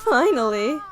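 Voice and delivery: acted cry of relief; tearful relief cry. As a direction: cry out "Finally" through tears. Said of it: "and cry".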